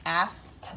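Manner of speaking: "Asked" with its T ending drawn out; exaggerated word endings. Shown as a demonstration. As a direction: lean on the T at the end of "Asked". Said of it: "the T".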